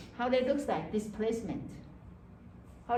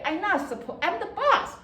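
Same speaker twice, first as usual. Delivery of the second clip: laughing at herself; 9 semitones higher than usual. Real, not acted. Laughing at own story.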